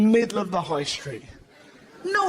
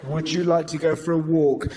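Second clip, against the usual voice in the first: teasing dog-owner question; 4 semitones lower than usual. Shown as a demonstration.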